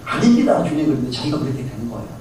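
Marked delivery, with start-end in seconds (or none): 0.1-0.9 high, urgent denial; eager protest. Retold or imitated. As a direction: protest quickly, almost pleading. Peter protesting to Jesus. (높고 다급한 부정)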